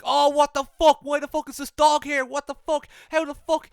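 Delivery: loud, high-pitched mock panic; mock freak-out. Imitating wrestlers startled by a dog, mock freaking out. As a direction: blurt it like a crowd freaking out. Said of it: "A lot of people were freaking out".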